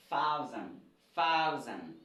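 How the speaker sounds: "thousand" said alone as a clear English model; model pronunciation. Shown as a demonstration. Teacher shows class how English says thousand, model pronunciation. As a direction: sound out "thousand" for learners, falling at the end. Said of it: "Everybody after me".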